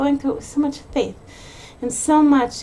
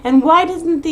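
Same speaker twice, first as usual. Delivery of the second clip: fast, higher-pitched mock rant of a blaming parent; angry blaming; 4 semitones higher, 4 dB louder, faster than usual. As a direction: fire off accusing questions, mildly hammed-up. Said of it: "being angry at everyone and blaming everyone".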